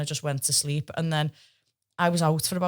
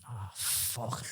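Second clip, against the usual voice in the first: low, much softer defeat; deflated mutter; 5 semitones lower, 13 dB quieter than usual. Retold or imitated. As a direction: let it drop out of you. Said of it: "And I just".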